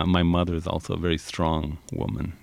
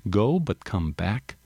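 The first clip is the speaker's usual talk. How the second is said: sad; slower than usual. Acted. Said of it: "Doña Josefina said sadly".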